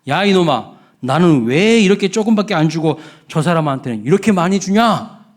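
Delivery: loud, high indignant demand; mock complaint. Nobleman complaining to the butcher about small portions. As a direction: protest like a cheated customer. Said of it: "첫 번째 양반이 따졌습니다".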